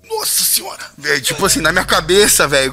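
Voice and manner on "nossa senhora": very high, squeaky mock shock; hammed-up falsetto amazement; stunned disbelief. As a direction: squeak it out, floored by the offer. Acting out shock at the offer.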